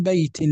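"بيت" ending in -tin; kasra tanween. Shown as a demonstration. Teacher showing what tanween is, kasra tanween. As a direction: sound the final -in of "بيت". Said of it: "هذا هو ما يسمى بالتنوين".

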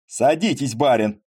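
a hint of a rough coachman calling; coachman's voice. Поль invites Цветков aboard, lightly mimicking a coachman. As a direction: play at being a coachman, lightly. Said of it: "стараясь сделать свой голос ямщичьим".

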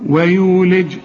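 ويولج with a thin, fronted "we"; light w. Shown as a demonstration. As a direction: recite ويولج, keeping the w light. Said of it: "مرققة إزاي؟". (ترقيق الواو في ويولج)

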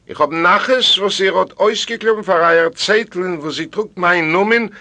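put-on high, emphatic old grandmother; proud grandmother announcing a match, voice lifted; delighted ghostly grandmother. A narrator's reading. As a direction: proclaim the good news high and forcefully. Dead grandmother speaks in the dream.

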